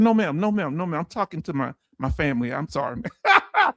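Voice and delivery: mild mock apology, dropping low; apologetic. Apologizing to the lady in the Costco line, sheepish. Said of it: "You real apologetic".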